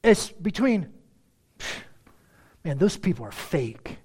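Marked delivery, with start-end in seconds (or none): 2.6-4.0 scornful "Man, those people are fake", dismissive; disdainful. Churchgoer's neighbour judging them, disdainful. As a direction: sneer at the hypocrites.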